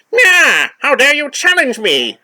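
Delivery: high, loud shrieking villain; shrill villain voice. Acted. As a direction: meow then outrage, high and shrill. Skeletor reading, first take.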